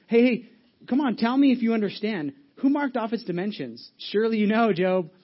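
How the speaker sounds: God taunting Job with sarcasm; sarcastic God. Retold or imitated. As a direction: needle him like a God who has lost patience. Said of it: "a little sarcasm".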